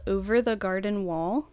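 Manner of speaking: southern accent. Real, not acted. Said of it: "I think that's my southern accent".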